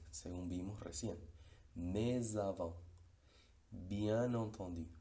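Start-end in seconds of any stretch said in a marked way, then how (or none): 1.8-2.8 "Mais avant" said very slowly and louder, S linked as Z; slow S liaison. Shown as a demonstration. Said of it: "pero como S". 3.7-4.9 "Bien entendu" said very slowly, N linked into entendu; slow N liaison. Shown as a demonstration. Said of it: "Lo mismo con bien".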